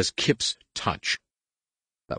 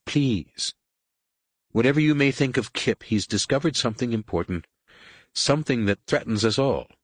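desperate plea; 5 semitones higher than usual. A narrator's reading. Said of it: "Jaina said desperately".

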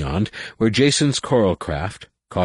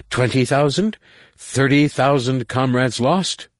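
higher, slow bitter count; rising drunken outrage; 7 semitones higher, 3 dB louder than usual. A narrator's reading. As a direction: hammer each number home. Drunk Findian counting losses.

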